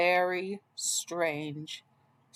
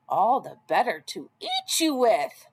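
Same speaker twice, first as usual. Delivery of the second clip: roar; 3 semitones higher than usual. Acted. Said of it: "Wolf roared".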